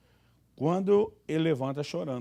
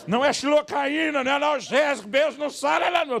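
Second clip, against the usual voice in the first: outraged shout; 10 semitones higher, 5 dB louder than usual. Pretend. Husband wanting to shout that the kiss cures nothing, loud and high. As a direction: blast out the protest. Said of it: "Eu quero dizer".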